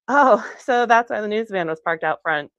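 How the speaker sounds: a breezy laugh before a light quip. Acted. Edie jokes lightly to the locals, laughing. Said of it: "Edie said lightly".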